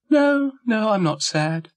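high-pitched, over-quick-to-deny character voice; Dougal's protesting denial. A narrator's reading. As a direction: start very high on the no, then ease down. Dougal denies being sad to Florence.

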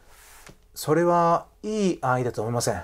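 measured, firm Japanese refusal; controlled, direct disagreement; decisive rejection. Acted. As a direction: state the disapproval deliberately, without raising the voice. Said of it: "if she decisively said something".

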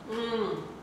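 muffled behind hand; chewing with lips closed; mouth full, chewing. Real, not acted. Seen 1: Chip goes in, hands cover mouth, then closed-lip chewing throughout.

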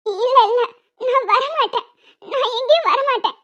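crying no as she refuses; tearful refusal. Acted. Girl refusing the moneylender, crying. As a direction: sob out the refusal to the lender.

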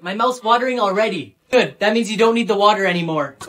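usual speaking voice

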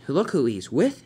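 mildly bewildered thought; confused. Acted. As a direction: repeat it to yourself, baffled. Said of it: "Thomas was very incru-, very confused".

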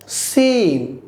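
সিন with a smooth long vowel; drawn-out, gentle. Shown as a demonstration. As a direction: ease through সিন, holding the vowel. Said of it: "একটু টেনে মোলায়েমভাবে বলবেন". (সিন টেনে মোলায়েমভাবে)

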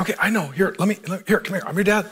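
hushed, fatherly reassurance in short pieces; comforting. Retold or imitated. Dad answering his frustrated son, softly comforting. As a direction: gently draw the child in to console him. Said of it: "Just try and comfort".

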